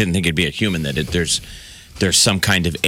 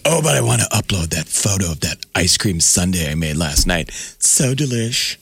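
mock gushing. Host mocking Facebook users with a mild gushing voice. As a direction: tease the ice cream photo crowd with a mild put-on gush. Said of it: "but then you're like".

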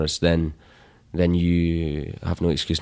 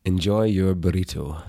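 sign-off delivered Scottishly; unhurried Scottish-accented send-off. Shown as a demonstration. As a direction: give the podcast sign-off in broad Scots. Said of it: "tell people Scottishly".

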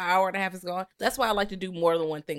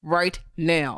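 talking through clenched teeth; slow words through closed teeth; jaw wired shut; 4 dB louder, slower than usual. Real, not acted. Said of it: "I'm talking through my teeth".

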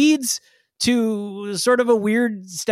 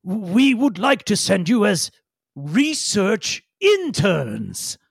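ponderous Dar Ukla; 2 semitones higher, much slower than usual. Acted. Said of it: "ponderous groan and nods and says".

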